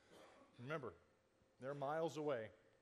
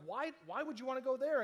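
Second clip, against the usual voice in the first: louder, higher incredulous question; incredulous disciples; 8 semitones higher, 6 dB louder than usual. Retold or imitated. Disciples questioning Jesus, higher and louder in disbelief. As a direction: ask like it's madness.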